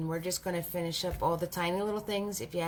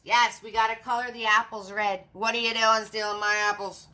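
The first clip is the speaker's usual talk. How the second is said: witch voice; 4 dB louder than usual. Acted. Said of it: "I think I do a witch better than the tree".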